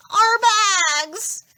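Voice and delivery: sudden realization. A narrator's reading. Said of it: "Grover realized".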